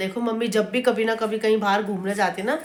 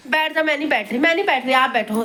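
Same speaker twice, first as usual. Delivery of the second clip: insistent refusal; 4 semitones higher than usual. Retold or imitated. Retells refusing the seat.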